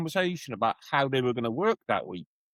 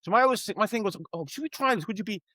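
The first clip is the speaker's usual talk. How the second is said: diplomatic suggestion. Retold or imitated. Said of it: "like a diplomat".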